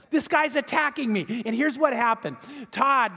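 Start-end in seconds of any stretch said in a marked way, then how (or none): 0.1-1.4 excited retold quote, a little higher; pumped. Young surfer tells his pastor about the attack, pumped. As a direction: lightly act out a pumped-up friend. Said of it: "And Todd was pumped".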